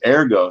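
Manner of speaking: ergo with r-coloured er, /ə˞ɡoʊ/; Latin ergo. Shown as a demonstration. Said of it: "the right way to say it Latin-wise".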